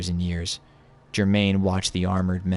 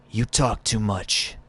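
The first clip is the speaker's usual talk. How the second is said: slow; 3 semitones higher, slower than usual. Acted. Drifter brushes off Ghost.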